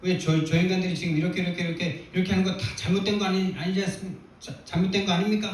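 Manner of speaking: half-hearted demand why God allows it; mock arguing prayer. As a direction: argue with God, lightly retold. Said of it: "막 따지듯이 막 기도하는데".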